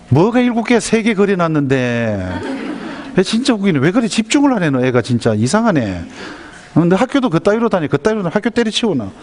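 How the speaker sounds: high-pitched acted nagging; exasperated mother. Mother berating her child for not concentrating, exasperated nagging.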